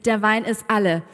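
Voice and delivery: loud, excited announcement to a crowd; Jesus als großspuriger Ankündiger. Acted. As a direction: proclaim it big, building in volume. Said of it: "Jesus ist nicht da an der Hochzeit und hat gesagt". (lautstark angeberische Ankündigung)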